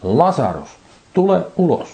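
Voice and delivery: "tule ulos" shouted high and loud; loud call. A narrator's reading. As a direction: call him out of the grave with a loud voice. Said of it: "hän huusi suurella äänellä".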